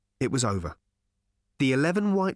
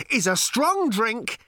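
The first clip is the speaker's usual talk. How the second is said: high, loud, slow shout; 9 semitones higher, 4 dB louder, slower than usual. Acted. Ford clarifying to Arthur, slow loud shout. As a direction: spell it out at full volume. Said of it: "shouted Ford".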